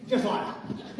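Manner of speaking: light laughing Tommy Cooper impression; Tommy Cooper catchphrase. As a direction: toss off the catchphrase with a chuckle. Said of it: "I'm gonna do it like Tommy Cooper".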